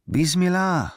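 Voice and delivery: high, sustained villagers' cry; calling out. A narrator's reading. Villagers answer the prophet, calling out high. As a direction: call it out high, holding the last syllable. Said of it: "riefen die Dorfbewohner".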